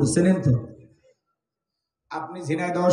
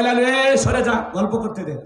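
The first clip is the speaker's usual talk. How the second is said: mild scolding; 3 semitones higher than usual. Retold or imitated. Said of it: "ধমক দেয়".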